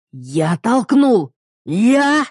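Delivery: slow then high loud outburst; husband yelling at his wife. Acted. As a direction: shout it into her face. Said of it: "орёт мне в лицо".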